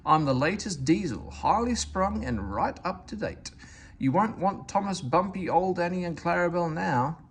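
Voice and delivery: high, haughty, fussy voice; fussy diesel railcar. Acted. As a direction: turn your nose up like a spoiled lady. Daisy boasts to passengers.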